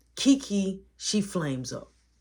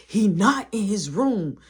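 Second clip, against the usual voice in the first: panicked insistence; 4 semitones higher, 6 dB louder, slower than usual. Retold or imitated.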